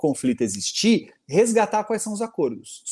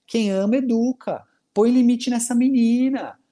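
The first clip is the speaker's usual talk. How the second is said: stern Içami Tiba; 4 semitones higher than usual. Retold or imitated. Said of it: "o Isamitiba surge e fala assim".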